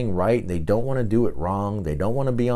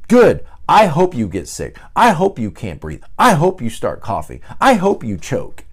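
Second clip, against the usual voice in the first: gleeful little daughter; 5 semitones higher, 6 dB louder than usual. Retold or imitated. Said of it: "immediately she says".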